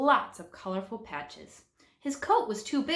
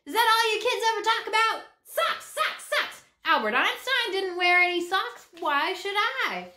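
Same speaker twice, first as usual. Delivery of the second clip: high, loud, fast frustrated outburst; exasperated rant; 13 semitones higher, 5 dB louder than usual. Acted. Hobo scolding the sock-obsessed class, exasperated rant. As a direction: vent at the kids, fed up. Hobo's outburst about socks.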